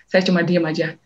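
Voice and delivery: ordinary delivery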